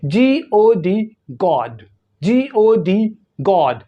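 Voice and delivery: गॉड with lightly rounded lips, British O. Shown as a demonstration. Teacher showing learners the lip shape, British rounded O in गॉड. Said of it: "British English में".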